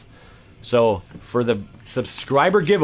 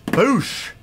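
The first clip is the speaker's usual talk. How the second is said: excited shout; 13 semitones higher, 5 dB louder than usual. Real, not acted. Excited exclamation at a card pull.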